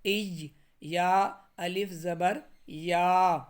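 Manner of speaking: ای and یا spelled out slowly, letter by letter; slow spelled-out Arabic letters; careful letter spelling. Shown as a demonstration. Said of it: "ہمزہ یا زیر".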